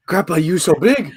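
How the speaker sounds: put-on high, loud childlike ape voice; ape child voice. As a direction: squeal it like an awed young ape. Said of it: "Starts mimicking Caesar".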